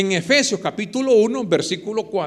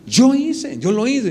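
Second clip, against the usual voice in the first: higher, firm declaration; a lightly voiced God insisting; emphatic God voice; 3 semitones higher, slower than usual. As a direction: proclaim it as the Creator. God answering His own question.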